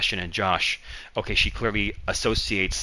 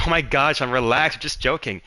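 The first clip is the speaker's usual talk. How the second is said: imitated exasperated brush-off, higher and louder; pitched-up acted dismissal; retold brush-off; 5 semitones higher, 4 dB louder than usual. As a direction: wave off a scolding in a raised mock voice. Coworkers brush off the scolding.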